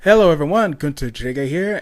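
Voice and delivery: a hint of a peppy channel greeting; old YouTube intro. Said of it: "Be like".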